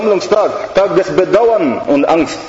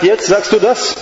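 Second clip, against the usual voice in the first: devil scolding; 3 semitones higher than usual. Retold or imitated. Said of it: "sagt er".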